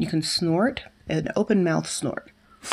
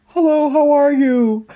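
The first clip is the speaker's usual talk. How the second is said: high cool-breath voice; 10 semitones higher, 8 dB louder than usual. Shown as a demonstration. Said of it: "Then you speak with that same feeling".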